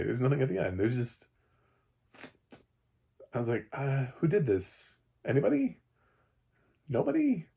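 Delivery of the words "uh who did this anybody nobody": mock calling out. Viewer asking who did this, mock calling out. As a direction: call out hopefully, pitch leaping up on each question.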